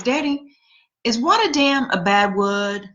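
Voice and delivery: lightly voiced little girl, slow; little sister asking. Little sister asking dad about a word, slow childlike voice. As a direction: ask Daddy innocently like a small child. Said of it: "she goes to my dad and she goes".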